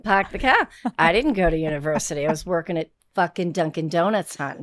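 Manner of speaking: put-on playful broad Boston accent, dropped R's. Guest claiming she worked at Dunkin' Donuts, Boston accent. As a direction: put on a working-class Boston local's accent. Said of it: "any of that Boston accent".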